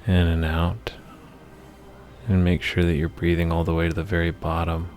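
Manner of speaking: measured meditation voice with long pauses between phrases; guided meditation. Acted. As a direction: lead the listener through the imagery phrase by phrase, unhurried. Leads a guided meditation for anger.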